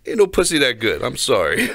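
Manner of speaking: a loud, high-pitched rant of disbelief; outraged shouting. Real, not acted. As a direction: shout it, mocking their complaint. Outraged at men wanting dates.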